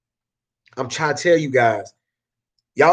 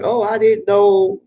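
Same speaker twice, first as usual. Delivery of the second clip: slow, higher, mock innocent; playing dumb; 6 semitones higher, 3 dB louder, slower than usual. Flyer guy pretending to neighbors he's clueless, playing dumb. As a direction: feign clueless innocence, drawn out. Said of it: "I'm just gonna be dumb".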